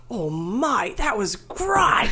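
slow, drawn-out and amazed, breaking into a laugh; impressed audience member. Retold or imitated. An audience member gushing mid-show, slow and amazed. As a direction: stretch it out like a stunned fan. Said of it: "someone went".

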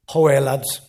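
badly faked Geordie call to the lads; bad Geordie accent. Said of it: "That's a shit Geordie accent".

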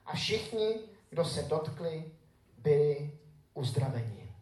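scripture reading. Acted. Pastor reading Matthew to his congregation, solemn and measured. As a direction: read the gospel to the congregation with weight.

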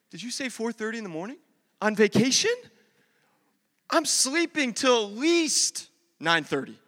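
mock disbelief at the early start; incredulous. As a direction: balk at it, stretching the last protest. Retells balking at early vacation start.

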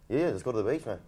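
half-hearted Australian accent; amateur take on Aussie speech; attempted Australian accent. Shown as a demonstration. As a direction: have a go at an Aussie accent, badly. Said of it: "you can do my accent".

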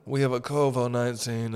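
slightly put-on drag-queen host; sashay through the announcement; drag woman manager. Building manager voiced as a drag woman, lightly campy. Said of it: "it's a drag woman".

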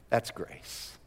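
whispered that's grace; awed whisper. Acted. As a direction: breathe it out to the room. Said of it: "hushed summary".

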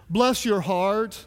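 sweet Southern. Retold or imitated. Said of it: "sounds sweet and Southern".

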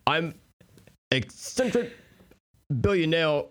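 high, halting voice with a speech impediment; Bruce Wayne. Acted. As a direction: introduce yourself in a silly high voice, haltingly. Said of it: "Bruce Wayne".

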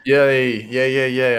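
cheering yay, yay; a live stand-in for a cheer clip; happy yay. Shown as a demonstration. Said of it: "a yay sound clip for you right now".

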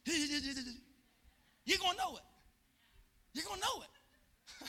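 slow, chuckling punchline; laughing. Acted. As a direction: laugh it out through the words. Laughing at his own joke.

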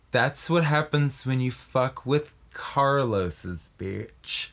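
slow parting line, dropping away; lightly acted slow, menacing kiss-off; Kevin Costner. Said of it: "And he goes".

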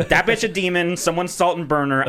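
high-pitched, hammed-up alarm; mock panic. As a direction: play at freaking out and bailing, voice jumping up. Acting out fleeing a demon set.

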